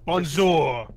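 playful French Canadian greeting; French Canadian accent. Pretend. Player joking about sounding French Canadian greets the others, French Canadian accent. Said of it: "want to sound like French Canadians".

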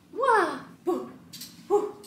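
high excited woo; silly celebratory whoop; playful whoops. Real, not acted. Playful exclamations.

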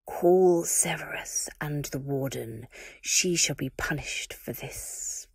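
slow, whispered order; a lightly voiced dark lord ordering; cold command. Voldemort gives a cold order.

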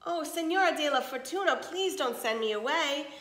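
put-on old servant begging the mistress, lightly pleading. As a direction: gently beg not to be sent away. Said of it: "Esperanza pleaded".

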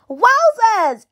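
high, delighted wowzers; amazed exclamation. Acted. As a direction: gasp it out in wonder. Sees friends at door.

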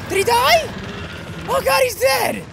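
loud high thrilled cry; excited disbelief. Real, not acted. Shouting to himself as the monster falls, thrilled cry. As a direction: erupt as the monster drops.

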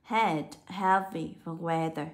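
slow Head, heavy, weather with short e; each of Head, heavy, weather said separately with short e; short E vowel. Shown as a demonstration. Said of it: "được đọc là âm E".

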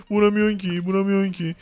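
lightly whiny teasing imitation; mock crying. Friend teasing the player who keeps missing, mock crying. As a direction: imitate a friend's whining, half-hearted. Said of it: "sen ağlıyorsun sadece".

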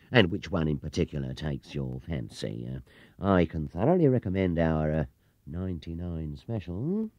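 a hint of a fawning salesman; oily, drawing out the pitch; smooth salesman. Clerk recommending the big tour, oily.

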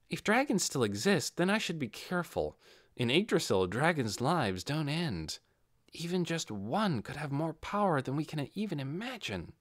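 measured, slowing warning; cautious Ainz. Acted. Ainz speaking aloud, cautious.

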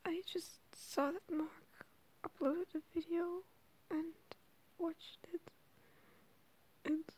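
whispering. Real, not acted. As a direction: whisper late at night. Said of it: "I'm sorry if I have to whisper".

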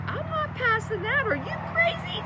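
a frightened animal refusing to move; panicked donkey. Acted. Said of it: "Now this donkey is like".

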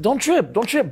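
high-pitched, hurried soothing; acted reassurance. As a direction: re-enact telling your partner not to worry. Retelling himself calming his lady.

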